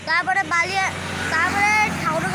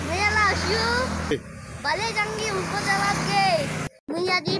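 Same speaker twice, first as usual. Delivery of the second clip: chatty northern Bengal village dialect, lightly done; Thakurgaon dialect. Shown as a demonstration. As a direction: speak it like a local from Thakurgaon. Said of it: "দেশি ভাষায় ... কথা বলি".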